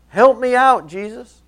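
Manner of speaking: high, loud plea for help; shouting from a distance. Acted. Desperate woman calls to Jesus, shouting from afar. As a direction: call out to someone far off. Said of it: "shouting from a distance".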